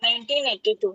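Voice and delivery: echoing phone line. Real, not acted. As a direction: voice echoing over bluetooth. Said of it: "इको आ रहा है".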